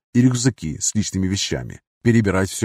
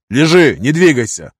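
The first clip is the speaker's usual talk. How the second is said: loud, raised command; shouted warning; 4 semitones higher, 6 dB louder than usual. A narrator's reading. Gunner warning wounded comrade, loud urgent order. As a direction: order him firmly to stay put.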